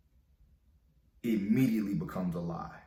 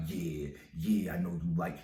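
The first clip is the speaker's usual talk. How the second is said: mocking player voice. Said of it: "talking all fucking player".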